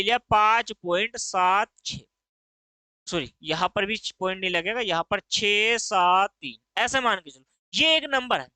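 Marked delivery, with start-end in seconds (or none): 5.3-6.8 slow, drawn-out छः, सात, तीन; one by one. Shown as a demonstration. Teacher gives example digits to students, slowly one by one. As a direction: lower and slow, each digit held separately. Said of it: "एक एक करके".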